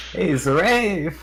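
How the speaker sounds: loud call across the group. Acted. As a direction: shout his name to get attention. Calling out to companion.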